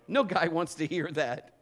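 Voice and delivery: ordinary delivery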